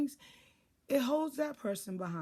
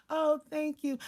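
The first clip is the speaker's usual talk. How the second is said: lightly acted, higher-pitched thanks; a pleased, higher reply to a kind greeting; grateful; 6 semitones higher, 3 dB louder than usual. Acted grateful reply, contrasting example.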